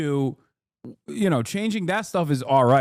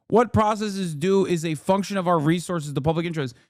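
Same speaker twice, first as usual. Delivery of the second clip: reading aloud; 4 semitones higher, faster than usual. Acted. Reads a politician's post aloud.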